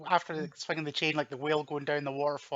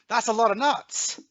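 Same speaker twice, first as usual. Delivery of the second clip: higher, slow mock movie shout; loud shout; 8 semitones higher, 6 dB louder, slower than usual. Quoting a favourite film line to co-hosts, shouted loudly. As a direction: belt it out slowly like the character. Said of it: "Really loudly, just shouting".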